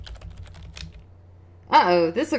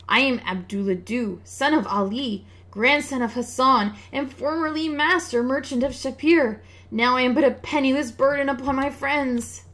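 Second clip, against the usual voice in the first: a robbed merchant, woeful and louder; lamenting merchant; 5 semitones higher, 4 dB louder than usual. Acted. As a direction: bewail his losses like a ruined trader. Merchant introduces himself.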